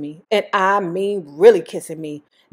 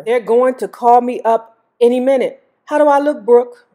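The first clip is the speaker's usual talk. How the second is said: eager; 4 semitones higher, 6 dB louder than usual. Acted. Eager Michael asks sister's opinion.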